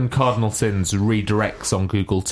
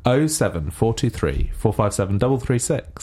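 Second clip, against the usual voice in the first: radio voice. Acted. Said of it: "That's how you read everything out".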